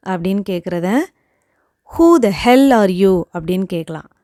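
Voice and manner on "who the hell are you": angry. Shown as a demonstration. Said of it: "இது நம்ம கோவத்தோட".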